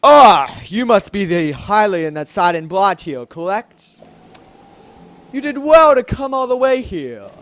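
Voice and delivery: a hint of a booming, stately king; lightly put-on manly king voice, projected; deep manly voice. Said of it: "let's give him a deep, manly voice".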